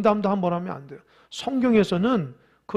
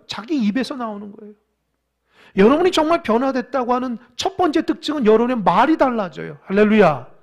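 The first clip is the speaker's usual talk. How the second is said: raised, emphatic sermon delivery; forceful preaching; 5 semitones higher, 7 dB louder than usual. Real, not acted. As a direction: press the point on the congregation, loud and high. (목소리 높여 강조하는 설교)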